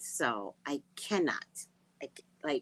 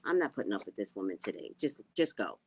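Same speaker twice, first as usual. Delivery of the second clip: lower, fast, hushed mom voice; lower, scared mom; 8 semitones lower, faster than usual. Retold or imitated. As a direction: mom too scared of grandma, hurrying the girl out. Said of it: "She's like".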